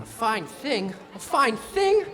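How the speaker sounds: second one jumps high and loud, affronted; a fine thing, rising into an outraged cry; indignant outburst. Acted. Archie, stuck on the dummy platform, bursting out indignantly.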